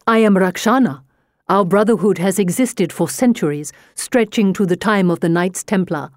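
a touch of a threatening brotherhood guard; lightly voiced grim warning; menacing young man. Kartik threatens her.

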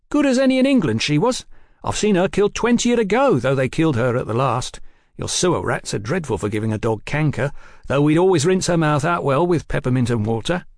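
a lightly voiced proud young waiter; eager waiter boy. The waiter boy talks of the dog.

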